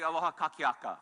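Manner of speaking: aloha kakiaka said clearly in Hawaiian; teaching a Hawaiian good morning; Hawaiian greeting. Shown as a demonstration. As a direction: pronounce aloha kakiaka syllable by syllable. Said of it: "we say good morning".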